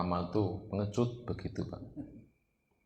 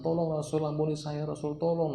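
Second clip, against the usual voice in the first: retold tearful plea; 6 semitones higher than usual. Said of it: "nangis-nangis".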